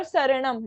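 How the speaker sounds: शरणम as sa-ra-nam; शरणम with dental s; "s" not "sh". Shown as a demonstration. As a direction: start शरणम with a plain s. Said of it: "शरणम नहीं".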